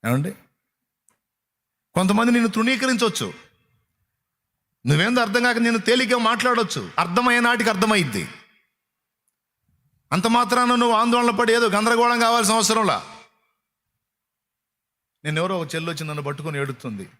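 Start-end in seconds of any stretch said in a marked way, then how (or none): 1.9-13.2 higher, driving rhetorical questions; fiery preaching. Acted. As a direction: press the congregation with question after question. Preaching at full force. (సభను ప్రశ్నిస్తూ ఉద్రేకంగా బోధించడం)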